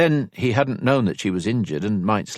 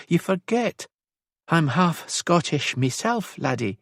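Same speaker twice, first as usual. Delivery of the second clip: high-pitched, badly faked Scottish accent; 10 semitones higher than usual. A narrator's reading. Elisand mimics Rory to tease him, bad Scottish accent. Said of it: "very bad attempt to mimic his accent".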